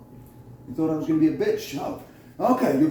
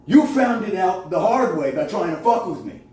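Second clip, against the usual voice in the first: angry; 3 semitones higher than usual. Real, not acted. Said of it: "Sorry, I'm a little angry".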